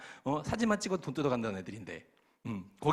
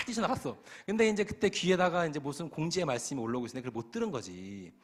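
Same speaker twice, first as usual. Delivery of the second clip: ordinary talk, nothing marked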